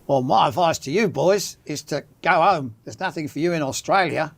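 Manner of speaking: lightly put-on Australian accent; a hint of imitation Australian; attempted Australian accent. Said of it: "I'll try and do my Australian accent".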